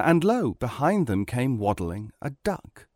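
usual speaking voice

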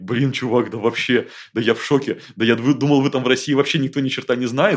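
loud, stunned disbelief; amazed exclamation. Retold or imitated. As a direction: gush like a shocked American. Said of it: "жмёт мне руку и говорит".

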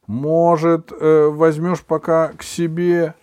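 high, slow pleading; plaintive. A narrator's reading. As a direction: ask pitifully, begging. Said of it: "жалобно спросил Стасик".

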